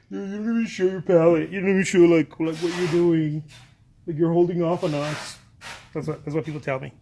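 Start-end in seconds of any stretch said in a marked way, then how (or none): 0.1-5.4 louder mocking whiny complaint; mock whine. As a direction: imitate loud, whiny nagging fans. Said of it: "my whiny voice".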